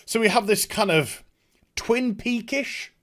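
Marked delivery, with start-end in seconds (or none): 1.8-2.9 searching for word. Real, not acted. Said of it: "Twin Peakish vibe to it".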